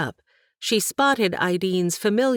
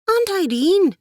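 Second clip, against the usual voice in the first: high loud outraged "Aunt Ideen!"; protesting cry; 6 dB louder than usual. Acted. Katie protests to her aunt, high loud cry. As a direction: fling the name out in protest.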